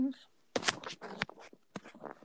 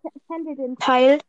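louder for a bad connection; to someone hard of hearing; 11 dB louder than usual. Real, not acted. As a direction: raise your voice so they hear. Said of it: "Was? Ich höre dich nicht".

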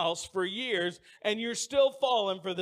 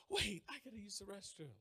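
lightly voiced wife, much softer; a hint of the wife pleading for the restroom; wife's voice; 14 dB quieter than usual. Voicing his wife in story.

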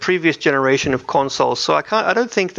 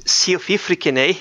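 bad Scottish accent; 4 semitones higher than usual. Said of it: "I'm so awful at doing a Scottish accent".

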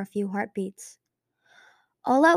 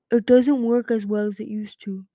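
whisper; 8 dB louder than usual. A narrator's reading. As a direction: whisper it to the others. Strongwing confides about the mirror.

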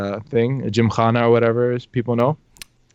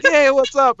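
higher, louder mock family hello; upbeat greeting; 12 semitones higher, 5 dB louder, slower than usual. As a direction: call out a cheery acted greeting.

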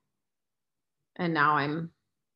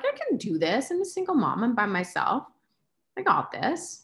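self pep talk; 5 semitones higher than usual. Retold or imitated. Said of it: "I'm like".

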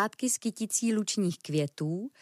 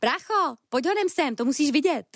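higher and louder, calling to a brother; 7 semitones higher, 4 dB louder than usual. Acted. Ferret calls her brother to come see the picnic, calling out. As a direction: shout him over, excited.

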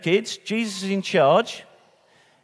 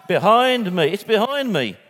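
louder panto-style "behind me"; pantomime call-out; 4 semitones higher, 4 dB louder than usual. Pretend. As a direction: play it like a panto audience cue. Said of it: "starting to feel like a pantomime".

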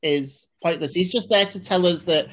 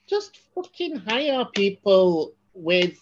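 exasperated; 8 semitones higher than usual. Acted. Reviewer fed up with actors' accents, exasperated. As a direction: plead in mock exasperation, pitch climbing. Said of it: "it just drives me crazy".

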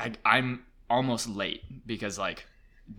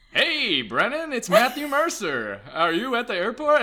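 hammed-up sultry radio voice, raised and loud; Matthew Mercer; 11 semitones higher, 6 dB louder than usual. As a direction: croon it like a radio host. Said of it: "the most sultry voice ever".

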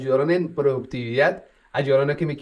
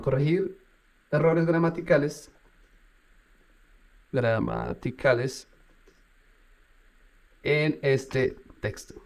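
slow typing dictation, word by word; slower than usual. Shown as a demonstration. Dictating a prompt to the chatbot, slowly. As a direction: spell out each word as you type it.

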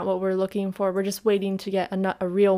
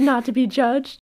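indignant, higher, louder mock-offended retort; sassy retort; 5 semitones higher, 5 dB louder than usual. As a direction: sass back like a gossip retelling. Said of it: "And I was like".

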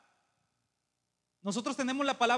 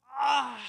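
long voiced "aaah" in mimicry; imitated pastor's drawn-out "ah"; 3 semitones higher, 5 dB louder than usual. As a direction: mimic the preacher's prophetic groan. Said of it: "y hacía así".

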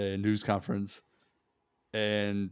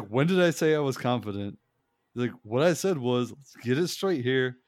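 imitating a snap; 2 semitones higher, 4 dB louder than usual. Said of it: "he just snapped".

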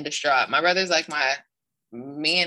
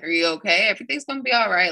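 higher-pitched retold reassurance; quick, raised-pitch mock reassurance; supportive; 5 semitones higher, 4 dB louder, faster than usual. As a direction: voice a coach comforting someone hurt. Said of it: "She's real supporting".

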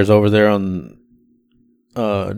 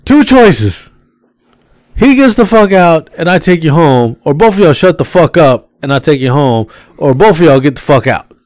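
high, raised ultimatum to the couple; mock threat; 3 semitones higher, 3 dB louder than usual. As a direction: lay down the law, half-joking.

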